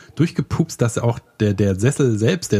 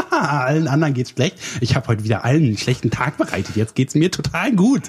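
cackling smug villain thoughts, pitched up; mocking gloating voice; 4 semitones higher than usual. Friend mocks friend as a gloating troll, higher and laughing. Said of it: "sitzt du in deinem Zimmer und denkst".

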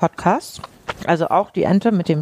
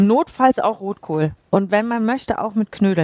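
mouth full; 3 semitones higher than usual. Real, not acted. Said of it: "ich kann nicht immer mit vollem Mund sprechen".

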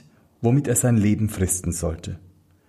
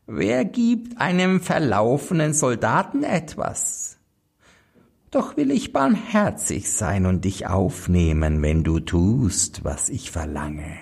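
hohe, falsche Hexe, dann lauernd; Hexenstimme. Acted. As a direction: listige alte Hexe, erst hoch, dann gedämpft. Hexe stellt Bedingung. (heuchlerisch gnädige Hexe)

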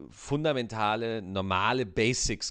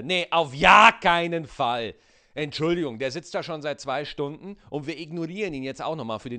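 indignant trainer; 3 semitones higher, 5 dB louder than usual. Retold or imitated. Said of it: "Dann sagt der Ausbilder".

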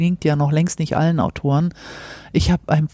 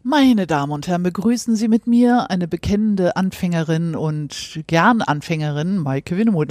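grand entrance announcement; 2 semitones higher than usual. Pretend. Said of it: "Wie würden Sie sich gerne selber mal anmoderieren?".

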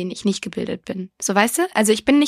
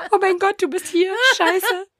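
higher, rushed disbelief; mock shock; 9 semitones higher than usual. Finding the guy still in her bed, higher mock shock. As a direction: gasp it out as if just realising.

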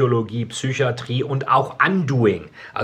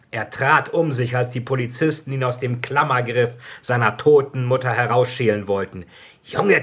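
story narration. A narrator's reading. Author reading his dark novel to listeners, solemn narration. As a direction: read it like a hushed tragic audiobook.

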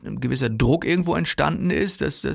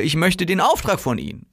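AUFTRAG pushed out higher, insistently; insistent emphasis; 4 semitones higher than usual. Shown as a demonstration. Seller demanding the order from the customer, insistent stress on "Auftrag". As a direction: lean hard on "Auftrag", pitched up. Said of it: "wenn du das immer wieder so betonst".

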